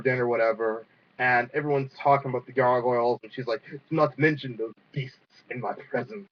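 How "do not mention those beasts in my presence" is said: lightly attempted Scottish princess; attempted Scottish accent. Princess forbidding mention of the gargoyles, faint Scottish accent. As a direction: have a half-hearted go at a Scottish accent. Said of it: "I can't do a Scottish accent".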